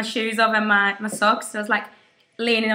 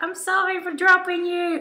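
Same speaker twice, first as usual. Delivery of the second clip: high, slow apology; mock apologetic; 8 semitones higher, slower than usual. Retelling an apology to Garrett, mock apologetic. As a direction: draw out a high-pitched sorry.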